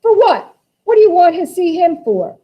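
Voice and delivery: high, loud, fierce demand. Acted. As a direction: snap the question at him hard. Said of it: "Beneatha fiercely".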